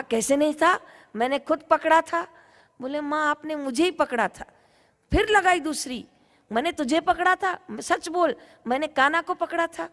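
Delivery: high, insistent scolding. Acted. Gopi scolding her son after slapping him, high and insistent. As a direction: insist hard she caught Kanha.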